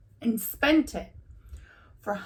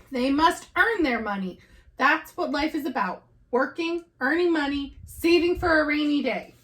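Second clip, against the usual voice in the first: raised, louder stern lecture; angry lecture; 5 semitones higher, 3 dB louder than usual. Acted. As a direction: lay down the law to the family. Papa lecturing in anger.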